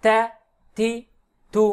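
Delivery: "তা, থি, থু" with a light, thin t. Shown as a demonstration. Teacher demonstrates the thin letter ta, light pronunciation. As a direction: keep the t in "তা, থি, থু" unthickened. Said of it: "তা পাতলা".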